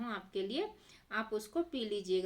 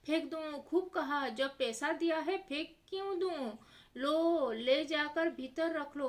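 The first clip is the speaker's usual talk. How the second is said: higher, outraged miser; scandalised seth; 4 semitones higher than usual. Acted. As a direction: throw it down like money is sacred. Seth voiced rejecting throwing it away. (सेठ जी पैसे की कंजूसी में ऊँची चिढ़ी आवाज़ में)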